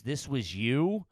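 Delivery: slow, lightly voiced Russian janitor asking; hint of the Russian guy, drawn out. Russian janitor catching him at the mess, slow and unimpressed. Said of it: "the nice Russian guy's there".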